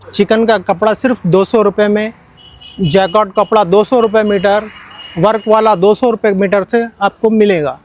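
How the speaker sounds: loud hard-sell shouting; overeager teleshopping pitch. Acted. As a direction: call out the prices loud like a market hawker. Shopkeeper hawking cloth prices.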